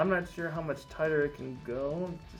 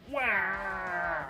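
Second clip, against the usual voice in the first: drawn-out mock yell; 3 semitones higher, 4 dB quieter than usual. Playing with voice modulator.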